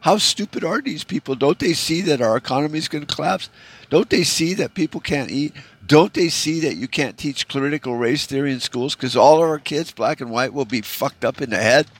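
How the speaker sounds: pleading in disbelief, pitch climbing; exasperated pleading. Retold or imitated. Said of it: "you're sitting there going".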